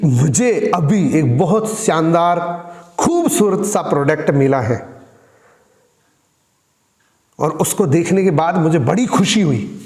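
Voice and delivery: delighted product pitch; demonstrated excitement. Shown as a demonstration. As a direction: share good news with swinging intonation. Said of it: "आपने excitement में बताया".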